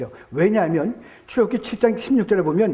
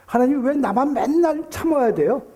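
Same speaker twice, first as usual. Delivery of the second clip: higher, drawn-out mock complaint; complaining to God; 4 semitones higher than usual. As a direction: act out a slow, raised plea of protest. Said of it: "그런 얘기 많이 하죠".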